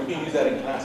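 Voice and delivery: said through laughter; laughing; laughing teacher joke. Retold or imitated. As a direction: tease while laughing. Teacher joking about ruler.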